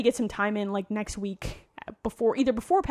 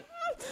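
imitated sigh; 12 dB quieter than usual. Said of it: "She just went".

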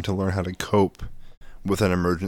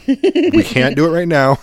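strained dad; 9 semitones higher, 9 dB louder than usual. Retold or imitated. Shaken dad holding it together.

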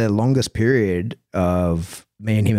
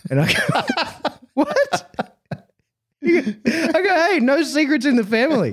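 high, slow, laughing through it; can barely get it out for laughing; helpless laughter retelling the story. Real, not acted.

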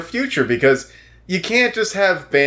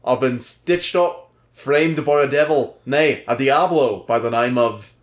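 put-on British accent, overdone Cockney; hammed-up, uneven Cockney accent; Murdoch. Jailed musician protesting his innocence to an interviewer, hammed-up Cockney accent. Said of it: "your British accent is like two people".

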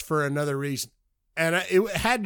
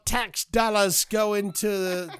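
put-on British pitch; British accent; 2 semitones higher than usual. Co-host spoofing the pickup line, mock British. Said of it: "in the British accent".

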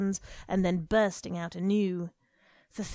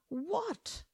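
sharp mother's snap; 11 semitones higher, 5 dB quieter than usual. Acted. Wife snaps at husband.

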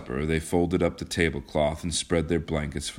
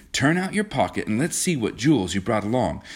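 eager, higher-pitched urging; brisk hopeful eagerness, lightly acted; 7 semitones higher than usual. A narrator's reading. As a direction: press on keenly with lifted pitch. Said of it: "said John eagerly".

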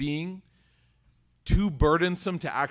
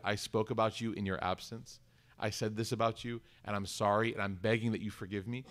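quiet humble apology; 5 semitones lower, 7 dB quieter than usual. Retold or imitated.

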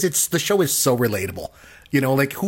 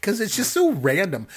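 laughing while talking; 10 semitones higher than usual. Real, not acted. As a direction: still cracking up as he speaks. Still laughing about the show.

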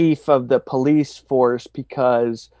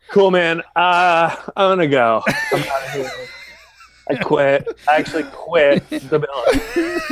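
laughing retelling. Retold or imitated. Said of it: "the Marine guy was like".

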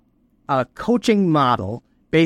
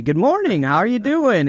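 higher-pitched, sociable hello; friendly greeting; 7 semitones higher than usual. Acted. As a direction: greet a coworker in a lifted voice. Acts out a friendly office greeting.

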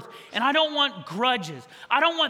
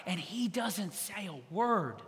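softened, slowed; 2 semitones lower, 7 dB quieter, slower than usual. Real, not acted. Silence of Jesus at cross.

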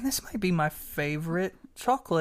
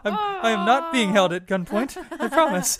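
louder, laughing through the words; 4 semitones higher, 5 dB louder than usual. Real, not acted. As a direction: laugh while insisting. Joking about being coerced.

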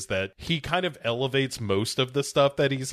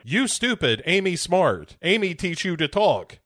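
Amy the gorilla; 6 semitones higher than usual. Acted. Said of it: "Amy showing up and being like".

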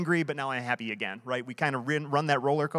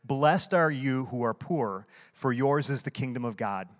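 solemn scripture reading. Acted. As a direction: read it out like a lector before the sermon. Reads the Beatitudes aloud.

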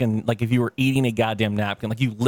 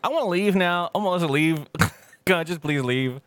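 high, half-laughing plea to leave; mock pleading; 5 semitones higher than usual. Wanting to flee family dinner, high mock-pleading whine. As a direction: beg to escape, half joking.

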